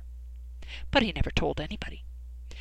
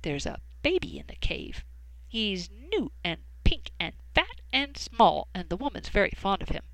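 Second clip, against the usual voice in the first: whispering bat; 4 dB quieter than usual. Acted. Bat whispers news to cat.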